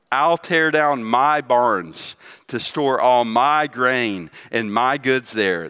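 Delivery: slow quote, leaning on each "my"; stress on MY. Retold or imitated. Preacher quoting the man in the parable, stressing each "my". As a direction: punch "I'll" and every "my", drawn out.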